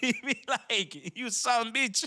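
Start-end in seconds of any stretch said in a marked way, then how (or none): 1.2-2.1 put-on Spanish accent, pitched very high. Describing the dad's voice notes, the speaker quotes him, imitating dad's Spanish accent. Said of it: "he still has like that Spanish accent".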